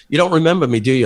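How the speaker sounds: put-on mild Australian-accented question. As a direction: ask it with a hint of Australian. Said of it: "your Australian accent's spot on too".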